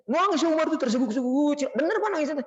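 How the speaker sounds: high-pitched imitation of weeping; mock sobbing. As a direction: tell it in a hammed-up tearful wail. Mimics the sobbing he describes.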